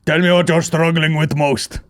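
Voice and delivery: lightly voiced foreign fitness coach; Taliban personal trainer. Taliban trainer selling online coaching, in a mock accent. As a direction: pitch a programme in a put-on accent. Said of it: "Roll on the Taliban P Ts".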